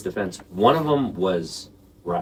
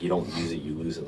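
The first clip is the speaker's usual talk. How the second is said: mock doctor; 3 semitones lower, 6 dB quieter, faster than usual. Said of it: "like a fucking asshole".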